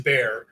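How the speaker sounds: "bear" drawn out with an open eh vowel; pronounced bear. Shown as a demonstration. Correcting the co-host on the German word, "bear" with an eh sound. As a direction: say "bear" slowly, rhyming with air. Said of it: "it's pronounced".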